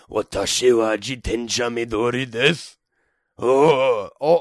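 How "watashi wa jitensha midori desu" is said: lightly voiced old man, level tone; a hint of a Yoda-like old man; Japanese old man voice. Shown as a demonstration. Repeating the Japanese line as an old man, lightly voiced. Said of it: "almost sound like Yoda".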